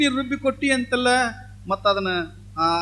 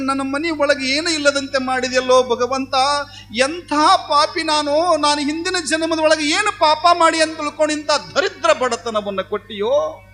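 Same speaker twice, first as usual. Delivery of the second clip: raised, pleading wail at God; lament to God; 3 semitones higher, 4 dB louder than usual. Acted. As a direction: cry out in despair over poverty. Poor wife laments to God.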